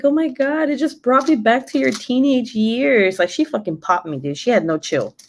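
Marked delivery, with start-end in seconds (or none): 0.0-3.2 high-pitched, imitated apologetic mother; remorseful mom impression. Mom apologizing after smacking grown daughter, imitated remorse. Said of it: "she felt so bad".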